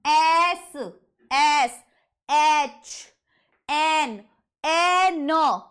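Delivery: "एस, एच, एन" stretched out loudly, each opening on its vowel; vowel sound up front. Shown as a demonstration. Teacher showing students the vowel start, "एस, एच, एन" drawn out. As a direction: draw out each letter name, "एस, एच, एन", leaning on the opening vowel. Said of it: "शुरुआत अ sound से है".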